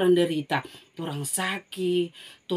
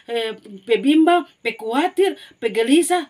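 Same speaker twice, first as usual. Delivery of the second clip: building emphasis; 5 semitones higher, 7 dB louder than usual. Acted. Building list of worries.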